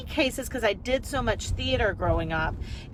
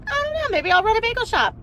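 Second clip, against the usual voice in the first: musing to herself; 5 semitones higher, faster than usual. Retold or imitated. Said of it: "I was like".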